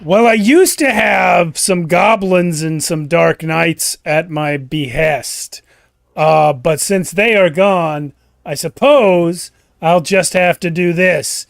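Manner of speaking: loud, slow, theatrical villain; Slug the Wizard. Acted. Wizard lamenting lost goblins before attacking, loud slow villain voice. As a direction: savor each phrase loudly like a scheming wizard. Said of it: "appears Slug the Wizard".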